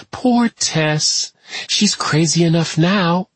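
high, drawn-out, off-kilter taunt; unstable, taunting woman. A narrator's reading. Tess accusing her visitor through the door, high and taunting. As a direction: accuse him in a singsong high voice.

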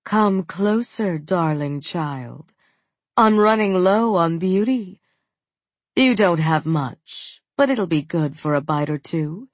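spider woman. Acted. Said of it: "A voice right behind her tickled her neck".

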